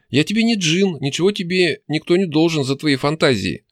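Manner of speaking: high-pitched angry jibe; angry outcry. A narrator's reading. Demon scolding the hero's wishes, angrily crying out. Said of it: "зло выкрикнула Настя".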